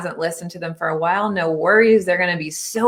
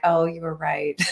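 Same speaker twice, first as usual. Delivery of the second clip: a sheepish quote broken by a laugh; laughing admission; 4 dB quieter than usual. Retold or imitated. Child conceding to parent, laughing. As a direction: laugh through the words as the kid who gave in.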